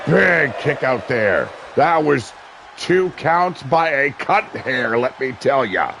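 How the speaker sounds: live wrestling play-by-play, rising with the action. Acted. Commentator calling a wrestling match for viewers, play-by-play. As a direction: call the match like a ringside announcer.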